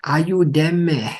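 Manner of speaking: "Ayúdeme" cried out high and drawn out; high mock shout. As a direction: call "Ayúdeme" high with a falling end. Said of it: "he's shouting".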